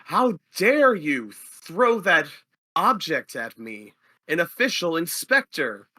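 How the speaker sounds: magically amplified outrage, slow at first; thaumaturgy voice. Acted. Fake inspector booming at the fighter, slow and outraged. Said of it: "in my thaumaturgy voice".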